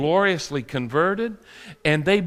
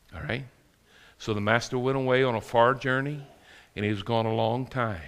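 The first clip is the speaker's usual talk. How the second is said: ordinary delivery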